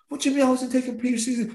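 can't believe the accusation; outraged disbelief. Retold or imitated. Accused of slacking at training.

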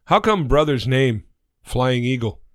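stilted question in a lightly put-on Native American accent; measured, mock Native American accent. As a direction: joke child in a stereotyped Native American accent. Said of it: "Sorry about the accent".

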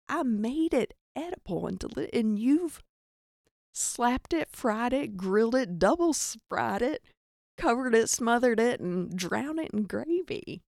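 lightly acted exasperated complaint; Jesus. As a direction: list each offence as if affronted. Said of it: "Jesus is looking down like".

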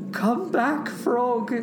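high call without much volume; acted, pleading shout; storybook shout. A narrator's reading. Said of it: "he shouted".

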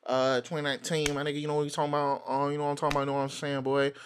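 lightly put-on urban slang patter. Host riffing on the new year, mock urban voice. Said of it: "I started talking like this".

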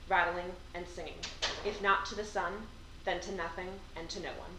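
hushed recital of a short poem; poem reading. Acted. Reads poems aloud.

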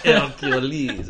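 slow, drawn-out mock character voice. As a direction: stretch the name out slowly. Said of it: "he's like".

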